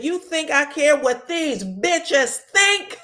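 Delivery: hammed-up indignant comeback; mock defiant. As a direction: throw the question back, amused. Retold quarrel, scornful comeback.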